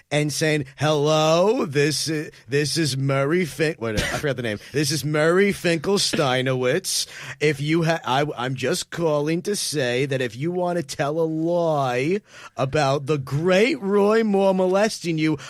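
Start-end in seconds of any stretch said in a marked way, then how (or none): 0.8-3.7 slightly hammed-up mock Jewish accent; fake Jewish accent. Host imitating the fake robocaller, mock Jewish accent. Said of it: "putting on a fake Jew voice". 4.7-15.4 slow, hammed-up mock Jewish accent; fake Jewish accent. Host imitating the fake robocaller, mock Jewish accent. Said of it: "putting on a fake Jew voice".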